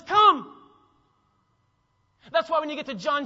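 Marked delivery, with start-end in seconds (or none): 0.0-0.5 high, loud "Come"; ringing call. Acted. Preacher voicing Jesus calling people to him, loud and high. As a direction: call it out with power. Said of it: "So Jesus says".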